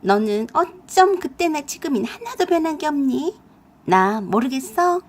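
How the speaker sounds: a hint of a coy woman; lightly voiced woman. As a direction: tease her as someone she should recognize. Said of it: "체념을 했는지 그 썩을 것이 나한테 그랬어요".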